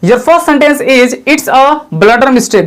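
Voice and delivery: very slow, word by word; slow example read. Shown as a demonstration. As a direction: spell the sentence out slowly for students. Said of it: "पहले शुरू में भी आपका sentence मैं दिया था". (बहुत धीरे, एक-एक शब्द)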